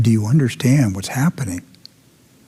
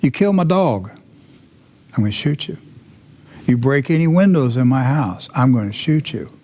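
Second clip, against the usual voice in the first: half-shouted warnings with raised pitch at first; mock shout; 2 semitones higher than usual. Homeowner warns gang off his property, mock shout. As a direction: lay down threats as if from a porch. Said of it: "you're shouting from your porch".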